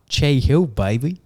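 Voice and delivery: loud, high and proud; excited. Real, not acted. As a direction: shout it like a celebration. Proudly announcing the new house.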